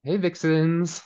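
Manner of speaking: mock high-pitched call-out; high, drawn-out hello to the fans; playful greeting. Host trying out a fan nickname, playful high greeting.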